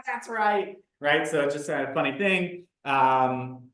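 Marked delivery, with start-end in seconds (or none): 0.0-0.8 higher, slow mock realization. Teacher answering the correction with a slow high mock realization. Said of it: "And I go".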